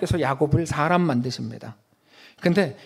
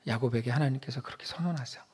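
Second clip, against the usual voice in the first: whisper; 6 semitones lower, 10 dB quieter than usual. Real, not acted. Whispered aside.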